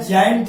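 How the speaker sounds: जायंट begun with ज; soft G pronunciation. Shown as a demonstration. Teacher reading the spelled-out example, जायंट with a j sound. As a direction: give जायंट an opening j sound. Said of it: "इसको ज पढ़ेंगे".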